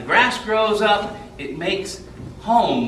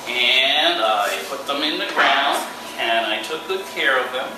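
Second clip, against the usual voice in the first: on stage. Acted. Storyteller performing for children.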